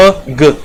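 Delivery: एग broken into "अ" and "ग", the opening vowel set apart; teacher splits एग to show its vowel start; word split into sounds. Shown as a demonstration. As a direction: pause after the vowel, then add the g. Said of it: "एन का sound जो है वो हमें दे रहा है".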